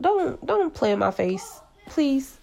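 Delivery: laughing plea. Pretend. Laughing plea, don't play me.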